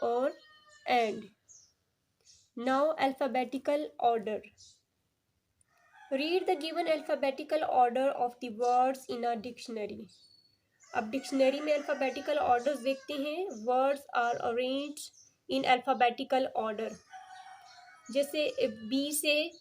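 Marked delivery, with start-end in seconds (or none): 2.6-10.1 slow, deliberate classroom read-aloud; slow textbook reading. Acted. Teacher reading the book's heading to her students, slow and deliberate. 13.5-16.9 slow, deliberate classroom read-aloud; slow textbook reading. Acted. Teacher reading the book's heading to her students, slow and deliberate.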